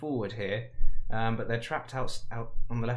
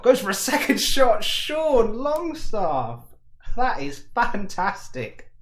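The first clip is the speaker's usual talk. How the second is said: higher and louder, the name stretched out long; ecstatic goal shout; 10 semitones higher, 8 dB louder, slower than usual. Real, not acted. Commentator celebrating a solo wonder goal, ecstatic shout. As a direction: scream the scorer's name in delight.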